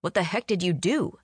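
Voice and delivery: mildly stunned question. A narrator's reading. Driver questions Faye after the getaway, mildly stunned. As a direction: ask in understated disbelief.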